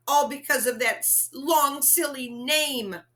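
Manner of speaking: sniffling. Acted. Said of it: "sniffled Papa".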